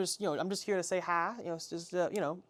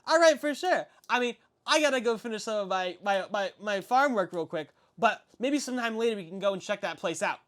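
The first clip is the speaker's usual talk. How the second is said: put-on eager kid voice; 2 semitones higher than usual. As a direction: ask like a curious boy.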